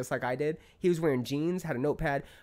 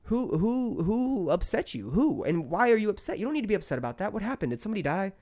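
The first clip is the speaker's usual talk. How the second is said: higher-pitched, exasperated retold questions; indignant questioning; 5 semitones higher than usual. Man replaying what he wanted to ask a rude stranger, exasperated. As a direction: pile up the questions in mock interrogation.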